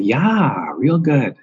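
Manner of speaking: imitating a Minnesota accent, rising high on "good"; a light Fargo-style Minnesota lilt. Imitating Frances McDormand's Fargo character, Minnesota accent. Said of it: "Frances McDormand in the first Fargo movie".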